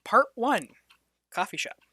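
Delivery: breathy dramatic whisper. Acted. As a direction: whisper the title.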